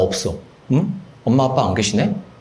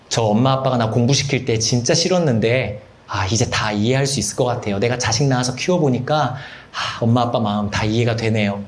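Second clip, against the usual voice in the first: acted heartfelt thanks; 6 semitones lower than usual. Acted grown child thanking parents.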